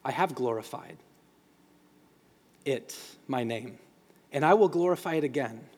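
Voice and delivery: a low, measured voice from heaven, lightly voiced; voce di Dio. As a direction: lightly voice God speaking down, low and halting. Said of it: "a voice busts through from heaven".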